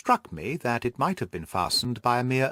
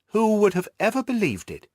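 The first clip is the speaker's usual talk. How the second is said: hammed-up amazement; 9 semitones higher, 3 dB louder than usual. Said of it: "He spoke in a jesting tone".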